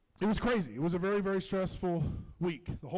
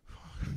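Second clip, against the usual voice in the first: quiet wordless noise, acting out his own reaction; soft mimed vocal noise; imitated noise; 4 dB quieter than usual. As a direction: demonstrate the sound he made during the birth. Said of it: "going like this".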